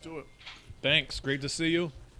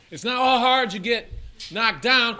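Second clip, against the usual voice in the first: loud dramatic trailer voice; movie trailer voice; 7 semitones higher, 8 dB louder than usual. Acted. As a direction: boom it like a trailer announcer. Reading movie tagline for guessing game.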